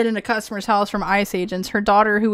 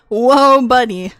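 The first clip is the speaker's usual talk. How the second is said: imitating a catchphrase; 6 dB louder, slower than usual. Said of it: "I can't say it like he does".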